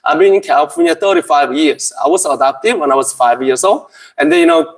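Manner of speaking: very slow, halting English from an adopted Californian; Korean-American accent. Pretend. Preacher posing as a Californian adoptee, very slow halting English. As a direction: play a hesitant Korean-American missionary. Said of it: "캘리포니아에서 왔습니다".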